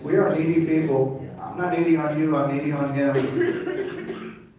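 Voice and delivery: emphatic preaching. Acted. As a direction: drive it home to the crowd. Emphatic preaching, laughter at end.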